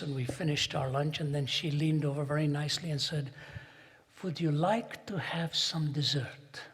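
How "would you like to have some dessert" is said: sweet voice. Retold or imitated. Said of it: "she spoke in a sweet voice".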